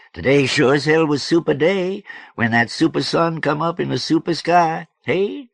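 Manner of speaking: high, loud, animated man's voice; boisterous George. A narrator's reading. George greeting passers-by at night, boisterous. Story figure George talking.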